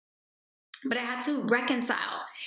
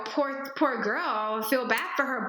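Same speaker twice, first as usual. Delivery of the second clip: mock pity. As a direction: coo it like fake pity. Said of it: "It's great that you're all".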